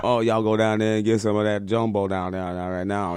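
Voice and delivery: put-on Creole accent. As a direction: slip into a rolling Creole accent. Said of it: "I love the Creole accent".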